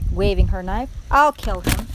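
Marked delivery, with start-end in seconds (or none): 1.1-1.9 loud, eager threat; volunteer loudly for the deed; shouted offer. A narrator's reading. Mig waving her knife, shouting. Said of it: "shouted Mig".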